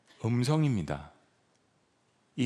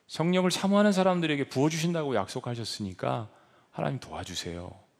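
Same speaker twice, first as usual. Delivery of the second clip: pleading prayer; 2 semitones lower than usual. Shown as a demonstration. Preacher models a pleading prayer.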